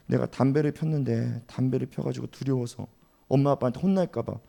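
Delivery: softly acted frightened confession; scared child. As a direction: confess quietly, as a child afraid of a scolding. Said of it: "두려워 떨고 있다고 생각해 보세요".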